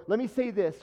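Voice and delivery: mock someone who must have a say; butting in. Acts out people butting in.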